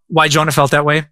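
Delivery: ordinary talk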